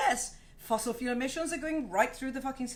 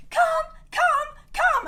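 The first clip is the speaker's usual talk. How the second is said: coaxing a cat; 9 dB louder, slower than usual. Retold or imitated.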